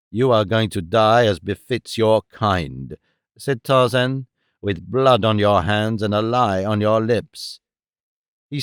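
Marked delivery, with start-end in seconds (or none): 0.1-3.0 lower, cold judgment from the ape-man; a merciless sentence; Tarzan, lower and stern; grim Tarzan. Acted. Tarzan condemns the Hun. 4.6-7.6 lower, cold judgment from the ape-man; a merciless sentence; Tarzan, lower and stern; grim Tarzan. Acted. Tarzan condemns the Hun.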